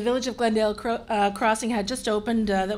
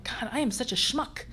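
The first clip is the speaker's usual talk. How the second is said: self-mocking laugh; 3 semitones higher than usual. Self-mocking inner thought.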